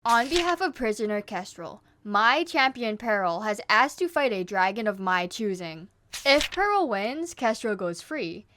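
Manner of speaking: theatrical villain queen addressing an arena; Scarlet. Acted. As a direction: announce to a stadium, savouring pauses. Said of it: "This page is Scarlet revealing".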